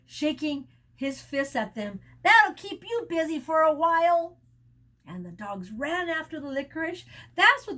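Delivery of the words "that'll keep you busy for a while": loud triumphant shout; yelling. A narrator's reading. Charlie shouting at the dogs, loud. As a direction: yell it shaking a fist. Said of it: "Charlie yelled".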